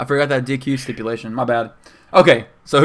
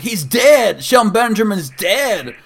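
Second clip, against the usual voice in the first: high, alarmed cry that he's dead; imitating a panicked friend; 8 semitones higher, slower than usual. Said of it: "He was, like, dead serious".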